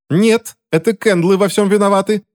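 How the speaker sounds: very high, small voice; thin little voice. A narrator's reading. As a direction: pipe up in a high, thin protest. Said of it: "послышался тонкий голосок мистера Грина".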